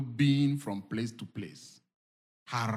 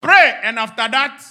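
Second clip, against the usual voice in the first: high, loud exhortation rising to shouts; full-force preaching; 11 semitones higher, 16 dB louder than usual. Real, not acted. Preacher urging everybody to pray and talk faith, shouting. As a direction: fire off each command at the top of the voice.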